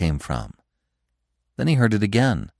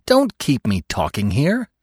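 higher, impatient bleat; bleating protest; 4 semitones higher than usual. A narrator's reading. Bambi held up by the stag, bleating impatiently. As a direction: bleat it, pleading to be let go. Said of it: "a tone which clearly bleated".

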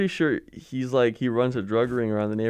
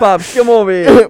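much higher, much louder and slow, summoning like a tiny boss; squeaky mini boss ordering his father over; bossy kid voice; 11 semitones higher, 14 dB louder than usual. Retold or imitated. Kid ordering his dad to come sit, high squeaky boss voice.

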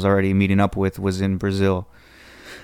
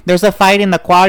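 higher, louder alarmed report; urgent secretary alarm; 10 semitones higher, 7 dB louder than usual. Retold or imitated. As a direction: burst in with urgent news for the boss. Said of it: "his secretary's like".

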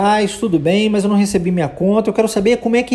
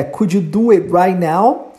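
slow question; slower than usual. Shown as a demonstration. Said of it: "a pergunta é".

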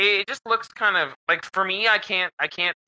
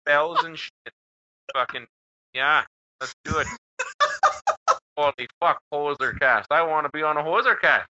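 put-on lightly done Canadian accent with eh; a hint of a Canadian accent. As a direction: keep the hoser voice going, easy. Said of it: "That's a pretty sick accent".

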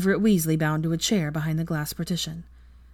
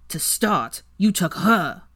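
spat; 3 semitones higher, 5 dB louder, slower than usual. Acted. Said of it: "Weasley spat".

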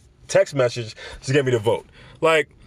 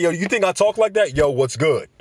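offended mock slang; 4 semitones higher than usual. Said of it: "Like, I'm offended".

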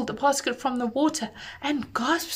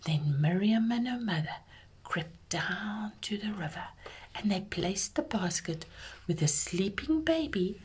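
hushed, grave whisper; whispered storytelling. A narrator's reading. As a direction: whisper it like a dark secret.

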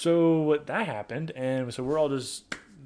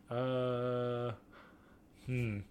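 thinking hmm; 7 dB quieter, slower than usual. Real, not acted. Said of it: "I have to think really hard".

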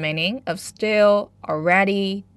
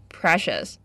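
precious with PRE stressed, the rest light; stress on the first syllable. Shown as a demonstration. Teacher models the word for learners, stress on PRE. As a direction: lean on PRE in precious, let ious fall away. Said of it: "the stress is on the first syllable".

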